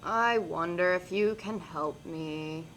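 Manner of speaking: slow, soft, pitiful plea; sad and pathetic. Acted. Frog begging the princess, slow pitiful sad voice. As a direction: beg for help pathetically. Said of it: "his most sad and pathetic voice".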